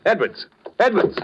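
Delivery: calling out. Acted. Henderson calls to Edwards in alarm, rising call.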